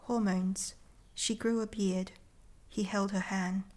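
measured, deliberate poem reading; poetry reading. Acted. Poet reading her short poem to the interviewer, measured and deliberate. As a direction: let each short line land on its own.

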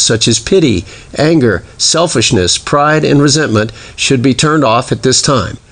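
lightly voiced pilot's cabin announcement; a hint of the captain on the intercom; airline safety briefing. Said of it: "I've given a few passenger safety briefings".

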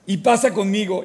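a light laugh through the invitation. Acted. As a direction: chuckle as you welcome him in. King invites champion, laughing.

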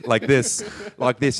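put-on deliberately poor Cockney accent; badly faked Cockney accent. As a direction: slip into a clumsy Cockney. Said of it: "switch into a bad Cockney accent".

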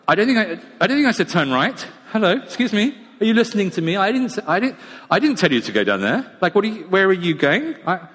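a gadget losing patience with its driver; exasperated sat-nav. Pretend. Sat-nav scolding the driver, acted.

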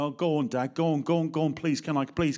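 lightly voiced wheedling child; a hint of a nagging child; whining kid. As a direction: beg like a kid pestering dad. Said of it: "a kid comes up and goes".

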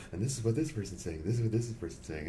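quiet whisper translation. Retold or imitated. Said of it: "She would lean over and go".

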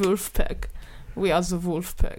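German accent. Shown as a demonstration. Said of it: "German doesn't have, uh, voiced".

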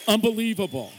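a high, ringing exclamation; excited. Real, not acted. Guest preacher praising pastors to the church, excited. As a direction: marvel at them aloud.

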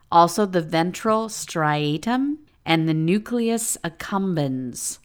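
slow, gentle and careful; calming voice. Real, not acted. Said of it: "you said it in a really calming voice".

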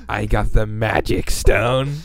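slow, low villain voice; Thanos voice. Retold or imitated. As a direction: drag it out like a lightly voiced Thanos. Thanos speaks in the movie.

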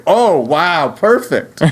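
mock Swedish accent. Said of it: "I would just speak with my Swedish accent".

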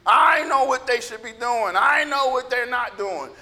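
mock self-righteous declaration. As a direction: imitate a know-it-all believer insisting. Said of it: "they become very self-righteous".

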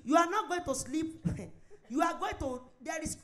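laughing. Real, not acted.

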